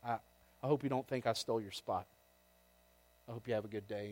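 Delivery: smooth things over gently with a stranger; calm the other driver down softly; gentle, reassuring. Retold or imitated. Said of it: "I just gently said".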